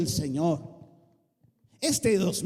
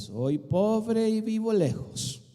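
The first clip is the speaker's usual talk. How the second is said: mild excuse; slower than usual. Acted. Gideon's excuse, voiced.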